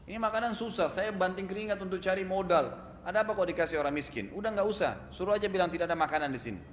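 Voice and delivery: angry husband. Retold or imitated. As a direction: scold her like a stingy rich man refusing a beggar. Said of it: "Suaminya tiba-tiba marah".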